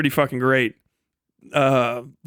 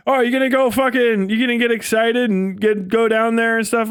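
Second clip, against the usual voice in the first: mock Scottish accent; 4 semitones higher than usual. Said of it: "I guess that's still Scottish".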